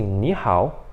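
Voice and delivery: "Ni hao" grave, ligado, sem pausa; natural, fluido. Shown as a demonstration. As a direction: emende "Ni hao" com o "Ni" subindo, no segundo tom. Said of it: "assim, muito natural". ("Ni hao" fluido, como um chinês falando)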